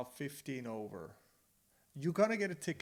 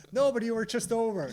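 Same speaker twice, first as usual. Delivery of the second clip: raised-voice bickering comeback; loud, higher-pitched marital squabble; indignant retort; 8 semitones higher, 10 dB louder than usual. Retold or imitated. Wife insisting to her husband he was over, indignant retort.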